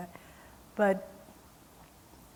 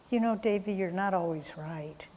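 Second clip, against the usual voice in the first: lightly imitated sweet chiding, softening at the end; sweetly. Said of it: "she just very sweetly said".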